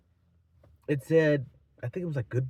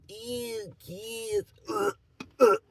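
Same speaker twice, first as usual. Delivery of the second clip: nauseated disgust; 7 semitones higher, much slower than usual. Pretend. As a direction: recoil queasily from the words. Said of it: "Get nauseous every time I say those words".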